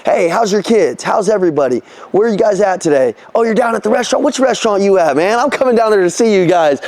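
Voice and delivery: fast, upbeat, buddy-buddy phone greeting; friendly sales call. Shown as a demonstration. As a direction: greet the client like an old friend. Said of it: "I'm like this".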